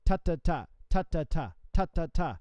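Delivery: ta ta ta with a gap where the fourth note goes; spaced groups of ta ta ta; correct rhythm. Shown as a demonstration. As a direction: sing ta ta ta as three sixteenths plus a rest. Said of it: "keep that space of the fourth sixteenth note".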